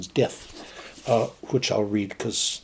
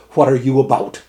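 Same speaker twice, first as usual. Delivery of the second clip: louder alarmed demand; cried out; 3 semitones higher, 7 dB louder than usual. Acted. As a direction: call out sharply at the old salt. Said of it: "cried the captain".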